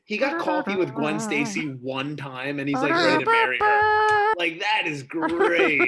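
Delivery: high, laughing, stretched out. Real, not acted. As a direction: laugh through the words. Laughing mock of Eddie Brock.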